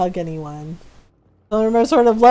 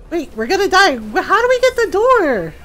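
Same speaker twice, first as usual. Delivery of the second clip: panicked stammer, higher and louder; shaky stammering panic; 7 semitones higher, 4 dB louder than usual. Real, not acted. Panicking in the game.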